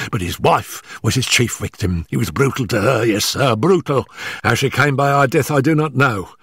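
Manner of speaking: high, hurried, stammering nervous man; gasping, out of breath. Acted. Nervous manager warning Holmes before his employer arrives, gasping and hurried. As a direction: blurt it out in short frightened bursts. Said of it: "our visitor gasped".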